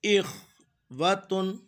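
वतुन with a brief "wa", never "waa"; short half-length vāv. Shown as a demonstration. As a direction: break after इख, then say वतुन with a short first vowel. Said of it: "वाव को पूरी आवाज़ से नहीं, आधी आवाज़ से".

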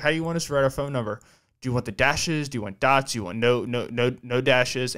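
fast, tripping over no, no, no; hurried mock stammer on the questions; imitating stuttering. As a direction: rush the questions and stumble on no. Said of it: "And he's stuttering".

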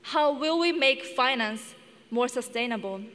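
ordinary talk, nothing marked

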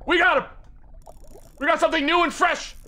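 high, excited exclamation; triumphant cry. Real, not acted. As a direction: crow over the catch. Celebrates hooking a fish.

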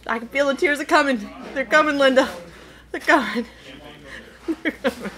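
giggling, the tears are coming; laughing through spice. Real, not acted. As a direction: laugh through the spicy heat. Spicy salsa, laughing at tears.

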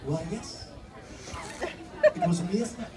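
reply as the other host; second presenter voice. Retold or imitated. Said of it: "these two".

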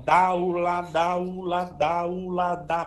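"dá, u, lá" joined in one even-pitched run; syllable demo. Shown as a demonstration. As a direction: chain "dá, u, lá" without breaks, like an articulation drill. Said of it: "Só que quando você faz".

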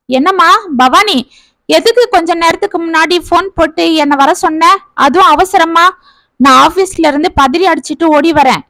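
rushed-in brother asking what's wrong, mildly voiced; lightly voiced worried brother. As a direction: brother hurrying home from the office, lightly worried tone. Brother Rajan voiced by narrator.

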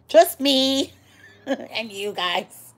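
slow, giggling through the words; laughing. Real, not acted. Telling stream viewers it's just them, laughing. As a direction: laugh as you say it.

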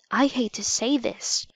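hushed unvoiced whisper. A narrator's reading. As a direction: whisper it so nobody hears. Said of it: "Josh whispered".

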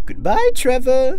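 slow, high, loud clown farewell; taunting high-pitched killer clown; sinister clown. Acted. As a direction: draw it out in an eerie clown voice.

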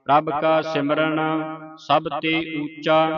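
slow, measured sacred reading; scripture recitation. Shown as a demonstration. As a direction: intone each phrase with long final sounds.

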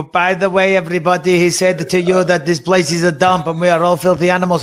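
put-on a light half Dagestani accent; mock translator in a faint Dagestani accent. Host voicing the translator to Brazilians, faint Dagestani accent. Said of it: "doing a fucking half Dagestani accent".

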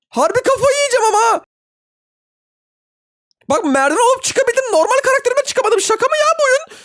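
high-pitched whine about the game; frustrated squeal. Real, not acted. Stuck again, building frustration.

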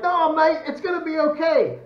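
mock reassurance. Australian soldier answering the man he shot, loud mocking comeback. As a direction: imitate a soldier jeering at his victim.

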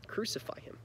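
a whispered, breathy crowd demand; hushed crowd cry. A narrator's reading. Teacher reading the crowd's demand to kids, whispered. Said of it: "And the crowd answered".

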